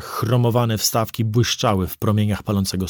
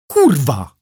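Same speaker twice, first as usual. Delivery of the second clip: higher, louder furious scream; screamed curse; 4 semitones higher, 5 dB louder than usual. Acted. Driver screaming as the drone pulls him over. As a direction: slam it out as you hit the wheel. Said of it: "wrzasnąłem".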